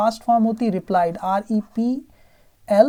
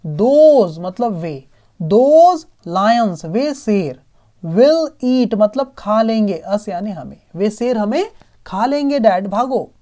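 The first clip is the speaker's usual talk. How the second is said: mildly voiced frightened son; 4 dB louder, slower than usual. Son warning father of lions.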